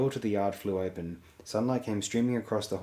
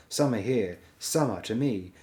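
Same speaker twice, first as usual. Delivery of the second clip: calling the wolf; 2 semitones higher, 5 dB louder than usual. Acted.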